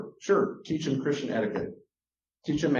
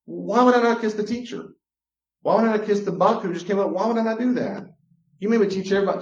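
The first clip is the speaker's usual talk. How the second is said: put-on higher, pleading child voice; imitating a child; 6 semitones higher than usual. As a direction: speak as the confused kid who had to obey. Voicing a confused child's reasoning.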